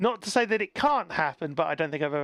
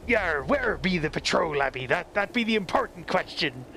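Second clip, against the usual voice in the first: pirate voice. Pretend. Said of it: "We be making pirate voices".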